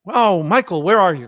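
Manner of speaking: lightly voiced father picking up the phone; voicing dad. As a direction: greet your son on the phone.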